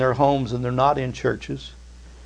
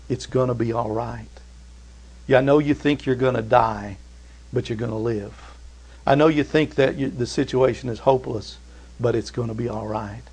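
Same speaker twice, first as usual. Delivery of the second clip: reassuring; 2 semitones lower, 5 dB quieter than usual. Acted. Paul reassuring frightened sailors.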